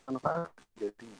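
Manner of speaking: choppy audio dropouts; breaking-up call audio; buffering stutter. Real, not acted. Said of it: "Suaranya putus-putus".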